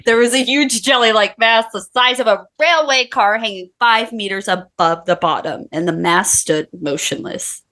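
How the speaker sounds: lightly faked Austrian-Russian accent; wobbly mock accent, fading toward own voice; Arnold Schwarzenegger. Reading the researcher's quote on a dare, wobbly mock Austrian accent. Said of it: "You have to do Arnold".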